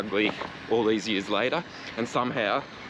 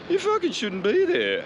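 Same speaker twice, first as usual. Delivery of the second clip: much higher mock yell at the cyclist; mock angry motorist; 14 semitones higher, 4 dB louder than usual. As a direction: parody the driver's outrage, pitched way up. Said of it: "And he was like".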